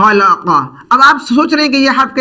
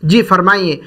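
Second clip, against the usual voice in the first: polite greeting; 4 semitones lower, slower than usual. Retold or imitated. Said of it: "हमसे कहते हैं".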